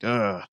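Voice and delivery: low, soft "ugh" of disapproval; understated mock groan of distaste; imitated disgusted groan. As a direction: groan quietly as if judging someone. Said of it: "what they're saying and thinking".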